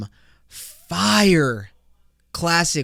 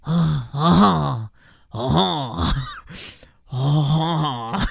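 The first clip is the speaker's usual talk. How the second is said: hammed-up Frenchman's "honh honh"; mock French laugh; much slower than usual. Frenchman with a curly mustache, mock French chortle.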